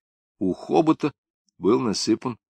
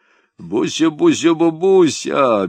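tender cooing; 7 semitones higher, 5 dB louder, slower than usual. Acted. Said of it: "бессмысленно и нежно заворковал он".

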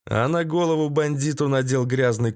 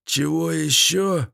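high, drawn-out grumbling voice; reluctant, slow query; grudging captive; 5 semitones higher than usual. A narrator's reading. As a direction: answer grudgingly in a raised character voice. Captive grudgingly answers his captor.

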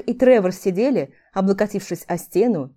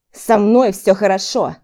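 growling; 6 dB louder than usual. A narrator's reading. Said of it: "прорычал Тревор".

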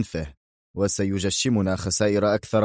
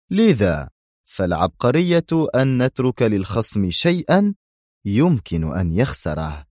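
enthusiastic. Acted. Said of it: "اندفع يقول في حماسة".

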